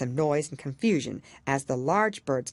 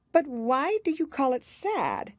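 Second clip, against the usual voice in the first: put-on high, slow puzzled girl; curious young girl voice; puzzled Alice; 11 semitones higher, slower than usual. A narrator's reading. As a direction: ask in wide-eyed wonder.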